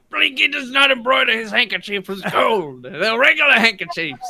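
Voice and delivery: high, loud, affronted character voice; comically outraged correction; indignant protest. Acted. Blinky indignantly corrects a teasing crewmate.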